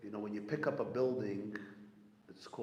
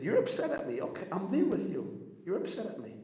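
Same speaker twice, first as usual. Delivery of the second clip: emphatic quote; 8 semitones higher, 4 dB louder than usual. Retold or imitated. Voicing the Rebbe's acceptance.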